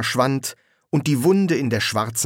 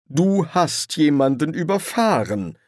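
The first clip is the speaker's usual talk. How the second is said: raised, stretched-out accusation; reproachful; 7 semitones higher than usual. A narrator's reading. Angel accuses the demon of running someone over, reproachful. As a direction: lay the blame with dismayed reproach. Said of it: "warf er dem Dämon vor".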